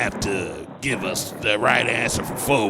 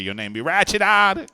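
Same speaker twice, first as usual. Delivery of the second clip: excited; 11 semitones higher, 7 dB louder than usual. Acted. Teasing host.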